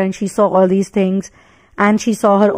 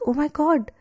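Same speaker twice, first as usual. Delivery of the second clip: awed realization; 4 semitones higher than usual. Retold or imitated. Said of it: "He's like".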